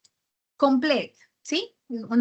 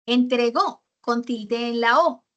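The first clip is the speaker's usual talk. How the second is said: Entregó said slowly, final O clearly stressed; slow it down and lean on the O of Entregó; teacher spelling out the accent on Entregó; 2 semitones lower than usual. Shown as a demonstration. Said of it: "los verbos conjugados en pasado llevan tilde".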